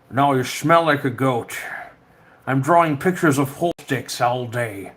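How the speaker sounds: hammed-up Scottish actor voice; slurred sibilants, Scottish comic insult; Sean Connery. Streamer retrying his accent on a goat insult, Scottish impersonation. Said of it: "talk like Sean Connery".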